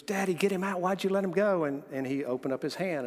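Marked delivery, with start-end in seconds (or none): 0.0-1.6 put-on panicked little girl. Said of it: "And she goes".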